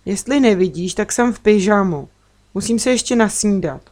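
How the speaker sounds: mild snappy retort; a sleepy girl snapping back at her friend, lightly irritated; snapped back. Acted. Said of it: "odsekla jsem". (lehce odseknuto)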